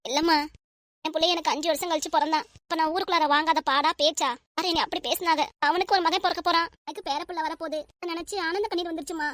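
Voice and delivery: acted happy tears, emotional; tearful joy. Mother-in-law overjoyed at a coming grandchild, mildly tearful. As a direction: pour it out, moved to tears of joy. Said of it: "இதுக்கெல்லாம் போய் அழுறீங்க?".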